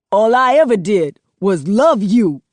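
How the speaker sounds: a son breaking down at his mother, voice cracking. Acted. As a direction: let the voice crack on it. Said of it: "His voice cracks".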